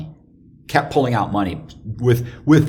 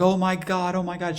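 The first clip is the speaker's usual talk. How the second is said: put-on panicked girlfriend; 10 semitones higher than usual. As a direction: imitate her fretting in a high pitch.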